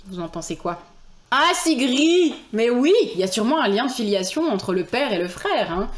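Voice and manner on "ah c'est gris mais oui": high, slow exclamation of surprise; surprised cry. Real, not acted. Streamer surprised by a chat message, loud and high. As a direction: draw out the shock.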